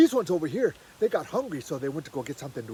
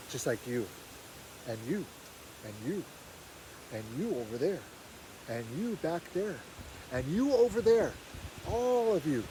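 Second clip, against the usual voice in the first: tender address; 5 dB quieter than usual. Real, not acted. Teller addresses the audience.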